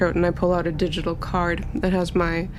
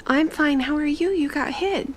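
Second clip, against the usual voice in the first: put-on higher young woman's voice, concerned; Tilby worried; 9 semitones higher than usual. Young lady asking her robot if it's hurt, higher worried voice. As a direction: check on your hurt companion.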